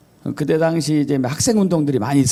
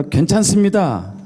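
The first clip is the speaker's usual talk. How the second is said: standard Korean, slightly higher; 4 semitones higher than usual. Shown as a demonstration. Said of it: "표준어".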